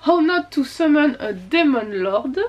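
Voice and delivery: slow English title in a French accent. Real, not acted. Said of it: "désolée pour mon accent anglais pourri". (titre anglais lent, accent français)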